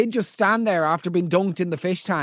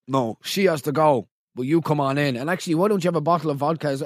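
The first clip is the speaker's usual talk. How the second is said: lower, lightly voiced bouncer; a hint of a kindly bouncer waving her in; mock bouncer; 5 semitones lower than usual. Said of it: "like, she".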